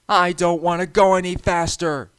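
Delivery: high, loud pleading cry; frightened call. A narrator's reading. James pleading with the trucks, frightened. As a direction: beg them to stop. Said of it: "James called".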